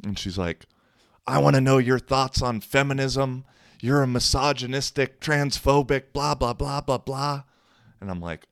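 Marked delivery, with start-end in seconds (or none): 1.2-7.4 high-pitched mocking imitation of her; belligerent drunk woman. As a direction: mimic a drunk woman haranguing you, high. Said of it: "just belligerently drunk".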